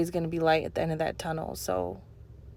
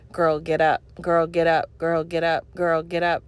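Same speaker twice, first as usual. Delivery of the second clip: mock preacher yell, a bit louder; retold yelling; 5 dB louder than usual. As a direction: echo the pastor's cry, pushing each line. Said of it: "she keeps yelling it".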